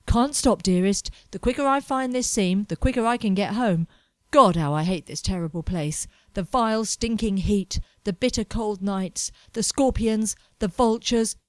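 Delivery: a hint of a bitter young man griping; lightly voiced ranting Edward. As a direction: grumble about the vile place. Edward voiced, ranting about place.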